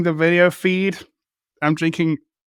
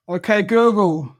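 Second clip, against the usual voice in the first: slow, higher-pitched command to a device; 4 semitones higher, slower than usual. Real, not acted. Asking the phone assistant Hank Green's age, voice command. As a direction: address a voice assistant very deliberately.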